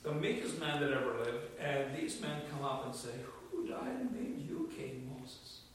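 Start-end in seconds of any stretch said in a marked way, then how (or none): 3.5-5.6 high, softened jeering voice; mock challenge. Young rivals confronting Moses over his authority, mock challenge.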